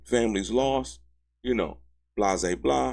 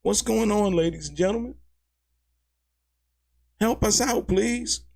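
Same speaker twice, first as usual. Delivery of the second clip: mock pleading; 13 semitones higher than usual. Real, not acted. Pleading to viewers.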